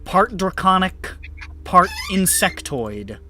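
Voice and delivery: game master narration. A narrator's reading. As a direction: set the scene for the players. GM describes the cavern scene.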